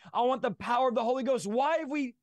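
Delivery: impassioned exhortation, pitch climbing as it builds; fervent preaching. Real, not acted. Guest urging listeners to believe for the impossible, fervent preaching. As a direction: urge listeners into bold prayer.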